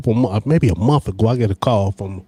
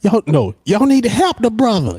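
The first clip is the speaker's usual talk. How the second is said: put-on old lady voice; 9 semitones higher than usual. Quoting the older lady again.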